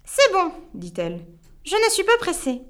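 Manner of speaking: witch. Acted. The witch setting him three impossible tasks, smug. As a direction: lay down the challenge like a smug witch.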